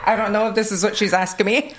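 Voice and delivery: quick, high and giggling, half-lost; laughing confused quote. Retold or imitated. Telling of granny's class, laughing and unsure. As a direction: laugh through the words, unsure what she wants. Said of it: "I'm like".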